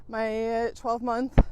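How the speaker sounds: breathless, slow, gasping between words; out of breath. Real, not acted. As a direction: struggle for air mid-sentence. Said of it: "God, I'm out of breath today".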